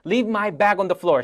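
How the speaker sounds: very slow, word by word; slow model. Shown as a demonstration. Teacher modelling a new phrase slowly for the class. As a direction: spell it out slowly. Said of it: "자연스럽지가 않죠".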